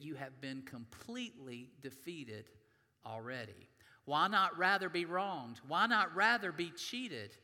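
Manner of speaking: measured, earnest reading from the pulpit; preacher reading Corinthians aloud to the congregation; scripture reading. Acted. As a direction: read the passage to the church, deliberately.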